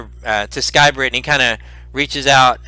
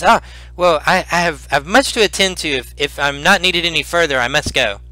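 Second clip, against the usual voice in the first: lightly voiced, hesitant old man; little old man; 4 semitones higher than usual. Old healer taking his leave, lightly voiced little old man. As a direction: excuse yourself as a busy old healer. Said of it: "uh, little old man".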